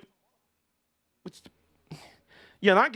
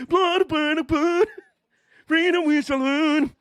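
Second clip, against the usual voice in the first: mock battle cry; 9 semitones higher than usual. Streamer mocking a driver as a Scottish rebel, hammed-up battle cry. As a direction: bellow it like a hammed-up Scottish war chant.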